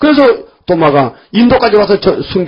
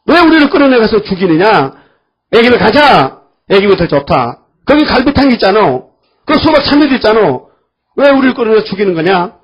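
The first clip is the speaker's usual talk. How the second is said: grumbling complaint; 3 semitones higher than usual. Retold or imitated. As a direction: complain bitterly as the people of Israel. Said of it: "막 원망하는 거요". (모세에게 원망하는 백성처럼 큰 소리로 불평)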